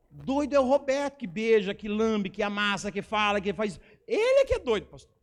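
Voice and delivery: acted outrage, punching out each accusation; indignant outburst. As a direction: hurl the blame, exploding at the end. Indignant retort he wished to make.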